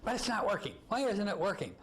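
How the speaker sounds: put-on high, yelling old Jewish lady accent; high-pitched Jewish-accent kvetch. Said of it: "yelling in this, uh, Jewish accent".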